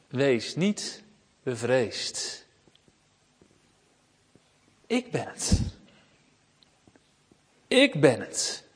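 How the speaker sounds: soft, hushed and reassuring; calm reassurance. Acted. Jesus calming his frightened disciples in the storm, soft and tender. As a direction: speak peace into their fear, softly.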